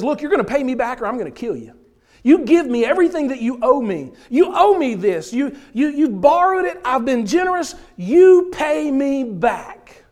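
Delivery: loud, fast menacing demand, slowing hard at the end; hammed-up angry creditor; mock threat. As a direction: shake down the debtor, half laughing through it. Creditor threatens and chokes debtor.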